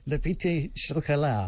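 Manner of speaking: put-on slow, half-hearted French accent; badly faked French, taken slowly. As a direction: reluctantly attempt a French accent. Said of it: "I don't have a French accent".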